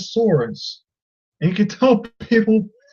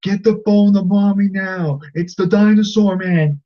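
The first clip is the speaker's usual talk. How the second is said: put-on three-year-old boy; 2 semitones higher than usual. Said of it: "He's, like, three years old".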